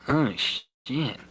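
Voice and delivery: quiet, dropped-off curse under the breath; muttered. Acted. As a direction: mutter it to yourself. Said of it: "he muttered".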